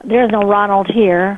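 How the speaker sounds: talking round a pen in her mouth; words muffled by a pen held in the teeth. Real, not acted. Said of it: "I had a pen in my mouth".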